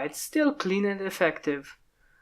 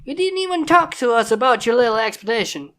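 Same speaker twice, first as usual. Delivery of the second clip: loud, higher, stern big-sister scolding; 5 semitones higher, 4 dB louder than usual. Acted. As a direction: cut off every excuse. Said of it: "started to scold them".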